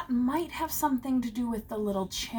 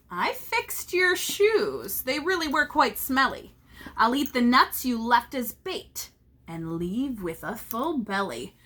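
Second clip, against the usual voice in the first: gloating leprechaun. Acted.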